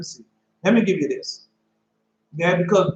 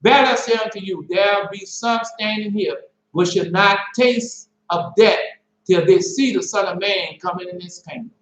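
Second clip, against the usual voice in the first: scripture reading; 2 semitones higher than usual. Acted. Preacher reading the verse to his listeners, measured. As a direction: read the verse like it's weighty.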